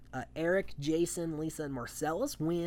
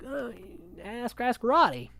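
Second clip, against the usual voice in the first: higher and louder, pushing the question back; mock exasperated deflection; 9 semitones higher, 6 dB louder, slower than usual. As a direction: throw it back at him, louder. Kiara deflects to Roddy.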